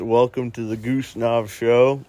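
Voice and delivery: slight lisp from a retainer; wearing a retainer. Real, not acted. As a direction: talk around a retainer in your mouth. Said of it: "I have my retainer in".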